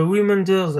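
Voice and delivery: Reminders said with a self-mocking English accent. Real, not acted. Vlogger reading the Apple feature list, English accent. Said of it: "avec un superbe accent anglais".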